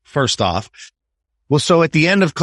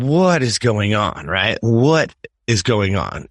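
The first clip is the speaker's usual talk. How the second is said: slow worried mom; 2 semitones lower, much slower than usual. Retold or imitated. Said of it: "And she's like".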